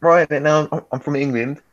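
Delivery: mock British accent. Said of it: "He can just switch. Like".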